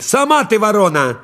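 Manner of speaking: high indignant retort; crow shouting back. A narrator's reading. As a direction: snap it back, offended. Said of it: "А ворона лисе кричит".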